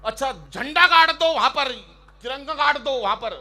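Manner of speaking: high, loud heroic declaiming; mock veer ras poet. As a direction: parody a chest-thumping patriotic poet. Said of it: "ये सब लोग मतलब ये बोलते हैं".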